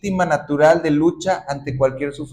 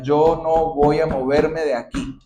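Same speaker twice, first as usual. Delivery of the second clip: obstinate defiance; 4 dB louder than usual. Acted. Te montes en tu macho.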